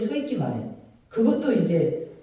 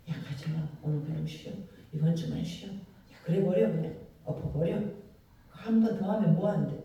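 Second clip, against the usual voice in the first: tempting inner voice; 3 semitones lower, 5 dB quieter than usual. Acted. Satan whispering temptations to believer.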